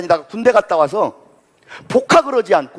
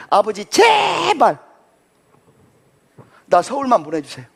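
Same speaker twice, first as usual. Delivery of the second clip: begging son; slower than usual. Retold or imitated.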